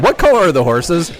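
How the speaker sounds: amused disbelief, pitch lifted; baffled retelling. Retold or imitated. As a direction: repeat it as if baffled by the randomness. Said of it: "it was just the most random question".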